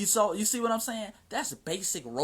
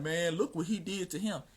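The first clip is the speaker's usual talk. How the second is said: mock crying complaint. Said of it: "while y'all sitting up here crying".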